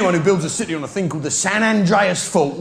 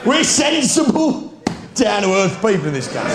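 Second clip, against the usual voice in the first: mock earnest; 2 semitones higher than usual. Comic mock-earnest pitch.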